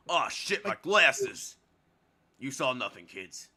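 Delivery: loud gruff flustered soldier; military voice. Acted. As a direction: bark it like a flustered sergeant. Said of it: "I love giving her this stupid voice".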